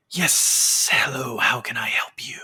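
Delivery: hushed, breathy-free unvoiced stranger voice; mottled-skinned man, whispered. GM voicing the mottled man to the players, whispered. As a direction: whisper it like an uncanny museum figure. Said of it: "man with the mottled skin kind of looks to you and just goes".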